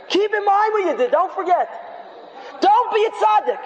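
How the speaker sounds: high-pitched, pounding shouts of accusation; booming accusing voice. Acted. Sin's voice berates the would-be penitent, shouting high and hard. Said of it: "powerful, booming voice".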